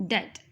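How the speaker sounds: "det" with no B sound; silent B in debt. Shown as a demonstration. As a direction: say "det" to rhyme with get. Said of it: "the pronunciation of this word is".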